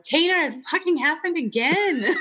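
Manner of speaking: high, giggly "it happened again"; laughing confession. Retold or imitated. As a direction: confess to a friend while cracking up. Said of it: "be like".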